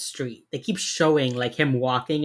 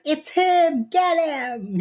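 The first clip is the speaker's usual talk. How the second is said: high, louder alarmed cry; excited yelling; 13 semitones higher, 5 dB louder, much slower than usual. Retold or imitated. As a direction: call the crowd to grab him. Crowd spotting the killer.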